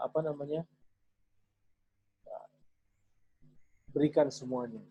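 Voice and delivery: gentle comforting father. Shown as a demonstration. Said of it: "bilang begini".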